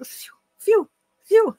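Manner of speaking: high-pitched, awkward "Fiu, fiu, fiu"; "Fiu" as one odd, high glided English syllable; odd English sound. Shown as a demonstration. Teacher showing students an odd English word, "Fiu" pitched high and awkward. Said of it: "não consigo nem falar esse fio".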